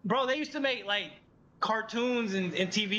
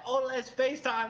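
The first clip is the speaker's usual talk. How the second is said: eager mock invite; 6 semitones higher than usual. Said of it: "anytime you're like".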